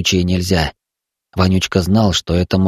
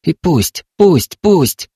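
fierce insistence; 7 semitones higher, much slower than usual. A narrator's reading. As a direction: let it all go, fiercely. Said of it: "шептали оттуда".

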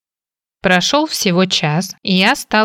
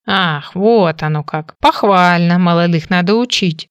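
put-on toothless old mumble. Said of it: "прошамкал дедуля".

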